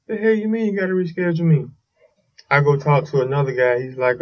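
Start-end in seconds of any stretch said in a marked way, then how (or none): 0.1-1.7 quick, higher-pitched incredulous retort; retold indignant disbelief. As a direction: replay a baffled, indignant comeback. Retelling his protest at being rescheduled.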